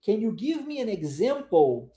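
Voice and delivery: slow "Can you give me an example?", ending "example" in "pou"; "example" drawn out with an "ou" ending. Shown as a demonstration. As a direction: model "example" slowly as "ex-zem-pou". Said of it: "L E, som de ou".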